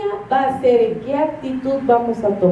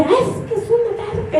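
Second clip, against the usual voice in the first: father laughing; 9 semitones higher than usual. Retold or imitated. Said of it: "Y decía".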